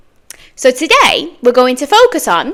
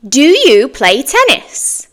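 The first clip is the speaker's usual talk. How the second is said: slow model question; 3 semitones higher, slower than usual. Shown as a demonstration. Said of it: "Here are some example questions".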